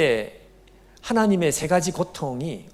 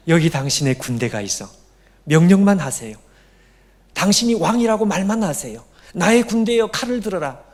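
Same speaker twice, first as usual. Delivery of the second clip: urgent command; 4 dB louder than usual. Acted. Judas urging Jesus to command.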